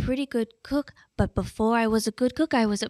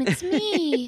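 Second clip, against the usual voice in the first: breathy Marilyn voice; 6 semitones higher than usual. Acted. Marilyn Monroe character intro.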